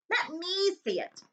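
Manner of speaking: slow, high, insistent demand; spoiled boy demanding to see. Acted. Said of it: "demanded Dudley".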